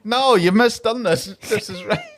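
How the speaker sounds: high, loud mock protest; hammed-up exasperation, pitched high; exasperated correcting. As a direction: plead with him that he's got it wrong. Acting others correcting the clueless man.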